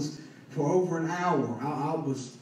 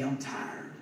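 soft, near-whispered imitation of giving up; retold exhaustion; 3 semitones lower, 8 dB quieter than usual. Weary man answers his preacher's encouragement, exhausted. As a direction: drop to a weak, low murmur. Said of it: "you just say".

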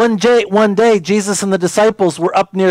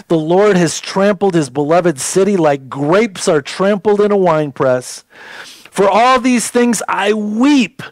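scripture reading. Acted. Pastor rereading Lamentations to the congregation, mournful. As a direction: let each line of grief land.

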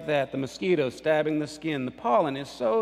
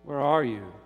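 firmer, mildly raised divine call; God crying out; 3 dB louder than usual. Acted. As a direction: cry it out, with restraint. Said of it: "cried God".

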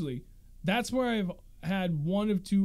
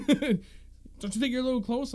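higher, slow, mocking question; annoyed homeowner; 7 semitones higher, slower than usual. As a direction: draw it out like a pushy neighbor. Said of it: "I'm like".

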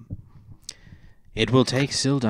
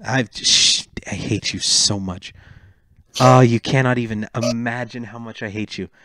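mock anger. Real, not acted. Playful mock anger at teasing.

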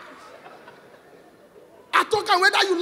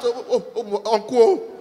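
mock pleading; 7 semitones lower, slower than usual. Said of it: "the Yoruba man dey shout".

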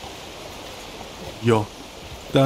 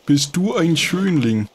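cooing to a horse; 3 semitones higher, slower than usual. Real, not acted. Coos to horse, slower.

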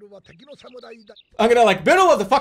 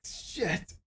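sulky, whining complaint; 2 semitones lower, 5 dB quieter than usual. Real, not acted. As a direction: whine like a sore loser. Complaining about unfair loss.

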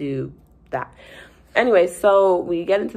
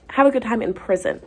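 sarcastic send-off; 4 semitones higher than usual. Acted.

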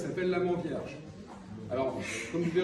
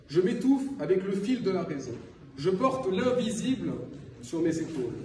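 earnest poem reading with deliberate pauses; solemn spoken verse, pausing between phrases; poetry recital. Acted. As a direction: recite it phrase by phrase, letting line endings drop. Reads own poem aloud.

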